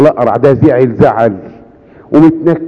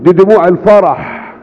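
a hint of a gentle higher saint's voice; lightly voiced Pope Kyrillos; 5 semitones higher than usual. Pope Kyrillos reassuring the crowd around the mother, lightly higher. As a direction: speak as the kindly pope, a little higher. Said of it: "البابا كيرلس قال لهم".

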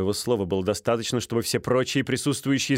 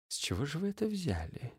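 much softer, calm and cool; cold quiet question; 5 semitones higher, 11 dB quieter than usual. Acted. Стужев calmly questioning Стольский, soft and cool. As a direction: ask it quietly, unbothered.

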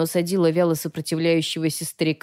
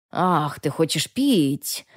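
slow, mock-pitying old man; drawn-out false compassion; fake sympathy; much slower than usual. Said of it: "с фальшивым состраданием в голосе".

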